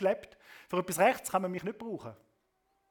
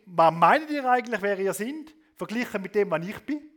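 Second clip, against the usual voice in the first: louder, arrogant challenge; superior attitude; 5 dB louder than usual. Acted. Preacher voicing Moses' arrogance, a touch of disdain. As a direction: look down on them. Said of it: "Das ist so die Haltung".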